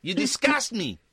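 a playful hint of fake disgust; mock Brighton accent. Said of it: "I'm doing a Brighton accent".

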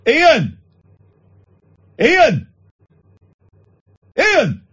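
high, drawn-out call of the name, repeated three times; kids calling from afar. Retold or imitated. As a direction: call Ian across a distance like a giggling kid. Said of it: "from, like, a distance, they go".

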